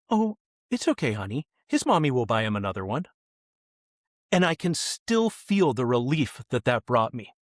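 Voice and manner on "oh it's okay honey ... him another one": a hint of a mother soothing her child, softening on honey; gently reassuring, lightly voiced; comforting mom. Mom comforts her upset child over the cat picture, gently. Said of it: "she said".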